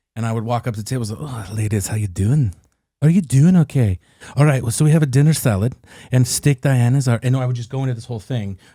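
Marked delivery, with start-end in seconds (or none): 1.2-7.2 slight Scottish brogue. Retelling greeting restaurant tables as a costumed waiter: little brogue. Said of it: "with my little brogue".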